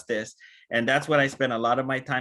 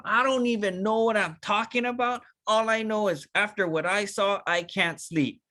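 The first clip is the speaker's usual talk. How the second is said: genuinely excited; 5 semitones higher than usual. Retold or imitated. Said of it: "Telling 'em".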